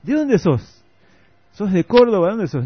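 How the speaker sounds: mock porteño driver pressing the question; Argentine taxi driver. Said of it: "le digo".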